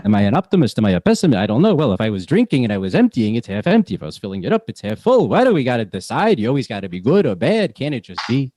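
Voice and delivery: put-on old Jewish man accent, muttering; Yiddish-flavored accent, puzzled. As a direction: fuss over the water like an old Jewish man. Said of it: "there are times where".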